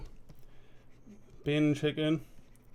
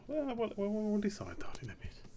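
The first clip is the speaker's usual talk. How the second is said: whisper; 9 semitones higher, 5 dB quieter than usual. Real, not acted. Unvoiced whisper.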